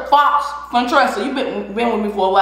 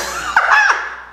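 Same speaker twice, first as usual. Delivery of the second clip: shrieking laugh. Real, not acted. Shouting laugh.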